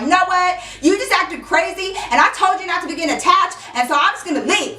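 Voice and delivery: high, fast parting shot; storming off. Retold or imitated. Girl storming away from Jake, high fast dismissal. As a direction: fling it over your shoulder. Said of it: "I stormed off".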